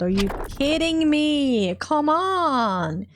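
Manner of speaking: high, drawn-out protest at bad luck; exasperated disbelief. Real, not acted. Player groaning at a failed roll, exasperated.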